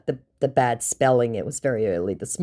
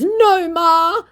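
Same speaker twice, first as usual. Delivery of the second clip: put-on Nigerian-accented scammer; 8 dB louder than usual. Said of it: "giving away where he comes from".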